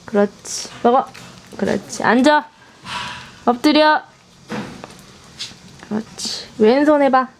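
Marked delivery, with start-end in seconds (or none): 1.6-2.0 soft praise. Real, not acted. 5.9-6.5 whispered praise. Real, not acted.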